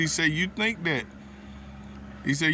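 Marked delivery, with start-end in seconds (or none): 0.3-1.0 gently retold challenge, held back from sharpness; said easy. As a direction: imitate someone politely softening a doubt. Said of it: "thought about it and said it easy".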